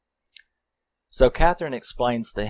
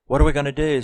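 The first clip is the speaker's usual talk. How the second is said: higher-pitched retold fretting; freaking out; 6 semitones higher, much faster than usual. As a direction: act out a mild panicked question. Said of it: "She's freaking out about".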